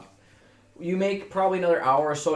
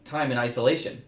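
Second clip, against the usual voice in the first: robot voice. Acted. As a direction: speak it like a cold android. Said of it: "Can't wait for you to do a robot voice".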